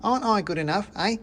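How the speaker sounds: high squeaky complaint; a tiny soldier feeling left out; whining mouse soldier. Acted.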